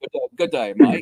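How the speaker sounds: not so good put-on Australian accent. Host greeting listeners who tuned in, not so good Australian accent. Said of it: "That's about all I can say with the accent".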